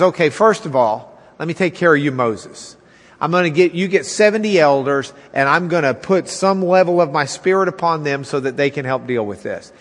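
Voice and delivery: calm authority settling Moses down; God speaking. Acted. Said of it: "And God says".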